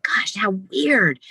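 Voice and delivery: slow hushed whisper of a private thought. Retold or imitated. Daughter silently thinking beside her father's bed, slow whisper. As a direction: breathe it as a slow secret to yourself. Inner thought, recalled in nursing home.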